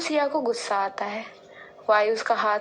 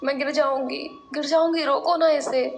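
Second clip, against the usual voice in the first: panicked pleading; 4 semitones higher than usual. Acted. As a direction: beg them to stop the ride, terrified. Arohi panics on ride. (झूले पर डरी हुई आरोही, घबराकर गिड़गिड़ाती)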